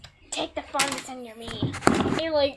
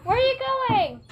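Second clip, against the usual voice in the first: high-pitched call after someone; 10 semitones higher, 4 dB louder than usual. Real, not acted. Child calling after Dad as he leaves, high-pitched. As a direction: raise the voice at someone leaving.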